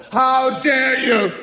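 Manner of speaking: slow, drawn-out theatrical indignation; lightly hammed-up theatre outrage; Victorian melodrama. Shown as a demonstration. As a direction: play it like a Victorian stage heroine. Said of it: "Straight from the Victorian theatre".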